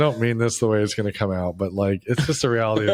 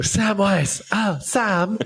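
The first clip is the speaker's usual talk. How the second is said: high, fond calling of Sam; mock Frodo voice; 7 semitones higher, much slower than usual. Friend calls out to Sam in a higher, fond, hammed-up voice. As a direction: coo Sam's name like a hobbit. Mock Lord of the Rings names.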